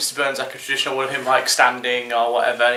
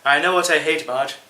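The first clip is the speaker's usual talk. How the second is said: soft Mister Burns; 3 dB quieter than usual. Retold or imitated. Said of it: "when he had to go soft".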